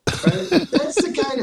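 real laugh breaking through; chuckling into the next line. Real, not acted. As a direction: laugh it off, then talk on. Laughing after the joke.

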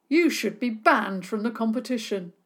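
indignant. Acted. Angry neighbour scolding.

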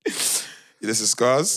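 very slow, each word stretched; slow drawn-out intro. Pretend. Host introducing himself to listeners, slow and stretched. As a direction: announce the name slowly like a host. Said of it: "That's how I know I snapped out".

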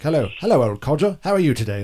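lightly hammed-up old-film British greeting; cliche movie greeting. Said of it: "the cliche one that you see in Hollywood movies".

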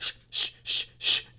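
unvoiced shushing hiss; hushed urgent shushing. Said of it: "she's really just like".

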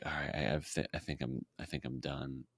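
very soft, low murmur; hushed inner monologue, low in pitch; thinking to himself. Retold or imitated. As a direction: murmur it privately, as a thought. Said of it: "thinking to myself".

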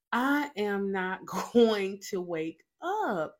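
slow, each word spaced out; emphatic dread. Retold or imitated. Recounting her panic at not waking up, slow and emphatic.

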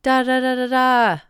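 high, loud babble of scolding; mock berating. Coach berating a kid, mock scolding babble. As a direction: keep ranting like the coach. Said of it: "berating the kid".

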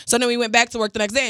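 ordinary delivery

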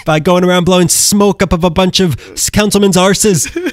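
lightly hammed Kansas accent. Host mocking the attorney dad, in a light Kansas accent. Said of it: "That's my Kansas accent".

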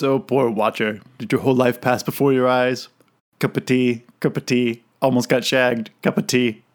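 put-on laid-back British accent, quoting Spike. Podcaster quotes Spike mocking the Watcher, British accent. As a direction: lean lazily into a British accent. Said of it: "he's leaning into this British accent".

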